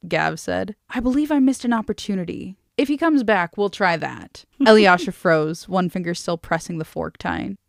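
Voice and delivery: measured audiobook-style reading; story narration. A narrator's reading. Reading a novel to a friend, story narration. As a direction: read the dialogue lightly in character.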